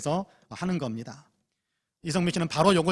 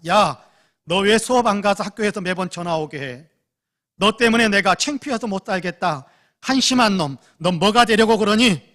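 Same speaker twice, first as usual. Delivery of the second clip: loud scolding shout, pitch up; furious mother's shout; retold yelling; 4 semitones higher, 8 dB louder than usual. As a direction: yell at the son who skipped class. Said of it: "소리쳤습니다".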